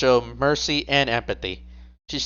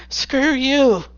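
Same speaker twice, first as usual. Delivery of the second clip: defiant shout; 13 semitones higher than usual. Acted. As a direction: spit the words at them. Captive agent spitting defiance.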